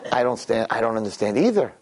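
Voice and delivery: low, chuckling through the words; deadpan through a laugh; laughing punchline. Retold or imitated. Idol worshiper admitting he doesn't understand, laughing.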